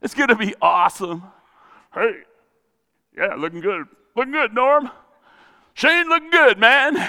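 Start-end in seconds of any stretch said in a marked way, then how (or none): 1.9-7.0 upbeat friendly hellos, pitch rising; cheerful greeting voice. Pretend. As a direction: greet buddies with growing enthusiasm. Preacher voices friends in heaven.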